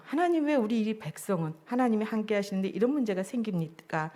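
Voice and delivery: a touch of complaint in the question; mild protest to God. Acted. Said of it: "하나님께 항변하며 얘기하고". (살짝 항변하듯 묻는 말투)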